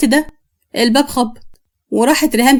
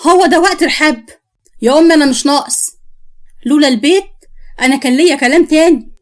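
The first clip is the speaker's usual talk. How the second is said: mildly irritated, pitched up; exasperated; 3 semitones higher than usual. Acted. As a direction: cut the argument short, fed up. Son snaps at mother in argument.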